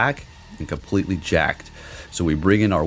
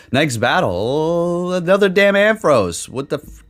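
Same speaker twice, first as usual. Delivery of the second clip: exasperated high voice; 11 semitones higher, 4 dB louder, slower than usual. Real, not acted. Exasperated at another Ampharos.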